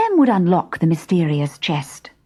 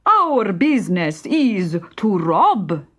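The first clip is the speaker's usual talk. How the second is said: slow, whispered bandit objection; a slow secretive bandit whisper; hushed bandit protest; 3 semitones higher, slower than usual. Acted. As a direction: protest it in a hush.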